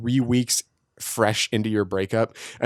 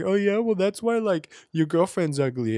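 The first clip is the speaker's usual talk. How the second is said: put-on high-pitched kid trash talk; kids roasting; 8 semitones higher than usual. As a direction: imitate a child's taunting comeback. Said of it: "they're, like, roasting each other".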